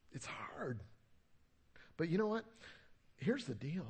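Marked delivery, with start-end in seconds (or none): 0.1-0.8 soft, hushed admission; confiding whisper. Real, not acted. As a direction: let it out under your breath. Confides how hard apologizing was.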